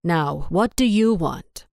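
slow, grumbling question. A narrator's reading. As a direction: grumble it out, tired of interruptions.

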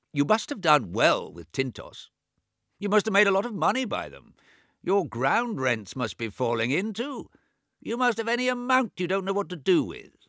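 put-on high, loud old man voice; deaf old man. James covets the money.

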